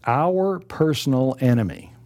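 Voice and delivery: PERSONAL given deliberate emphasis; stress on PERSONAL. Real, not acted. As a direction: lean on the word PERSONAL. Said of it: "Emphasize the word personal".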